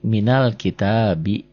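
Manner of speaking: minal kitabi slowly, mi joined straight to l; slow, measured minal kitabi; linked reading demo. Shown as a demonstration. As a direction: model minal kitabi as one linked phrase. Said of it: "Dari sini kalau ada mi".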